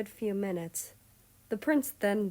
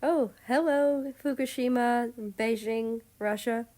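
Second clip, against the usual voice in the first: put-on breezy American accent, higher and louder; 5 semitones higher, 5 dB louder than usual. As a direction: greet them in an American accent. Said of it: "A familiar American accent was heard".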